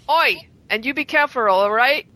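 cheeky attempt at a southern English accent; put-on southern English accent. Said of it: "she's doing the accent".

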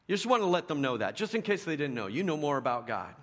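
mock superiority. Mocking spiritual know-it-alls.

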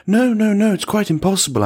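"No, no, no" pitched high and loud; heavy emphatic noes. A narrator's reading. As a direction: hammer each "no" in "No, no, no". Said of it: "pronounced with greater heaviness".

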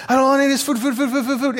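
high, laughing hummingbird voice; frantic hummingbird. Retold or imitated. Preacher imitating a hummingbird at the feeder, high and laughing. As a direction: flit from word to word like a hyper hummingbird.

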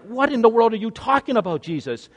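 exasperated, dropping on the name; acted incredulity. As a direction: demand it in mock disbelief. Voicing Peter's disbelief at Jesus.

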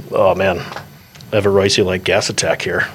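swallowing a burp while talking; speaking through a held-in burp; holding back a burp. Real, not acted. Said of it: "I was trying so hard not to burp".

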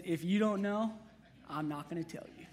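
put-on sulky girlfriend. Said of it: "And she says".

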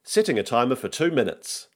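measured automated confirmation; Google Assistant. Acted. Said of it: "says the Google Assistant".

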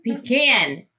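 "Pecan" said as PEE-can, flat A; pee-CAN pronunciation. Real, not acted. Teammate stubbornly correcting the word, "Pecan" as pee-CAN. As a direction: say "Pecan" with a long EE, then can. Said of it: "still sticking to pecan".

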